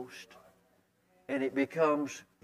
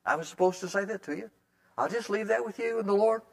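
kind and gentle; 4 semitones higher than usual. Shown as a demonstration. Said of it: "very kindly and gently say".

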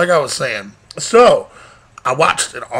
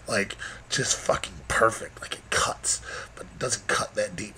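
hushed breathy whisper of bliss; soft ecstatic whisper; 5 semitones lower, 11 dB quieter than usual. Acted. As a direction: whisper it like pure pleasure. Savoring back scratch.

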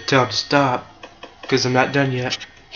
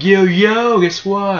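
raised, excited imitation of a boasting enemy; mock bragging; 6 semitones higher, 4 dB louder, slower than usual. Game enemy telling pals he messed up the player, mock bragging. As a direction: play the enemy showing off.

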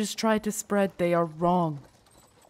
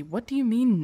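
taken aback; 4 semitones higher, 5 dB louder than usual. Acted. Guard taken aback by refusal.

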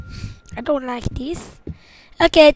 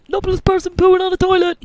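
laughing repeat; 7 semitones higher, 7 dB louder than usual. Shown as a demonstration.

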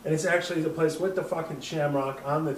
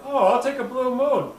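cheerful order; 9 semitones higher, 7 dB louder than usual. Retold or imitated. Ordering drink, tipsy voice.

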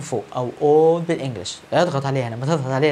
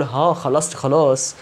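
careless student; slower than usual. Retold or imitated. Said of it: "واقول".

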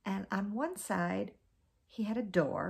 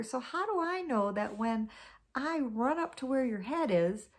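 higher, small innocent voice; wheedling little spider; 4 semitones higher than usual. Acted. Anansi coaxing Snake with a higher, innocent little-spider voice. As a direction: play the tiny harmless spider. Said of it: "well, he said".

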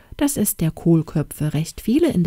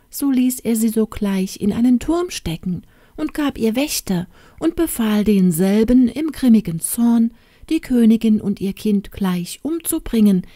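put-on lightly raised old hen voice, confiding; talking hen narrating; 3 semitones higher than usual. Old hen reveals the girl's royal birth, confiding. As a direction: tell the secret like a chatty old nurse hen.

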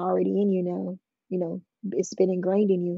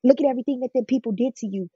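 mildly acted, higher-pitched pressing questions; manipulative goading; 4 semitones higher than usual. Pimp pressuring the girl he snatched up, manipulative goading. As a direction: lightly imitate a manipulator goading a child. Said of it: "he was very manipulative".

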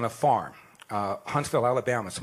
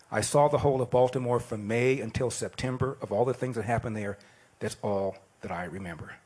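measured, slightly lower poem reading; poem recitation; 3 semitones lower than usual. Acted. Reading the poem he studied in class, measured recital.

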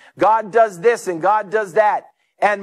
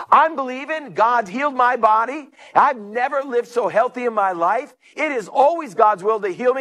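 higher, emphatic declaration of faith; retold testimony; 5 semitones higher than usual. Preacher voicing healed lady at prayer meeting, emphatic and assured. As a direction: imitate a woman confidently testifying.

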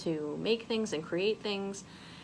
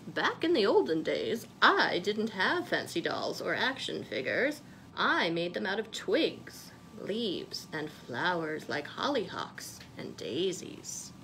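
grandma's advice. Acted. Grandma telling Molly about the olden days, lightly voiced. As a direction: tell it like a fond grandma remembering. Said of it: "Her grandma had told her".

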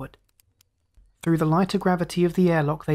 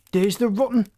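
higher, cut-off angry snarl; raging; 5 semitones higher than usual. Acted. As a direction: spit it out in rage. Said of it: "raging towards Scott".

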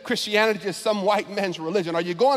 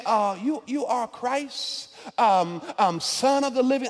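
unsure mumbling answer. Retold or imitated. Peter guessing timidly at the answer. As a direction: mumble it like you're not sure. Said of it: "when you're trying to answer a question and you don't really know".

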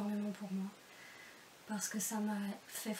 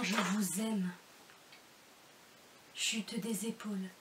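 measured poetry reading with pauses after each image; love poem recitation. Acted. Reader addressing a beloved petit loup, love poem recitation. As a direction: recite each endearment deliberately, letting "je t'aime" drop.

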